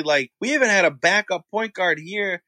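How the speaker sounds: deadpan joke barely holding back laughter; trying not to smile. Real, not acted. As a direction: keep a straight face, almost cracking. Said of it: "I couldn't even keep a straight face".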